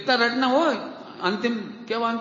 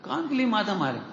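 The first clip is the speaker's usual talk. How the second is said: usual speaking voice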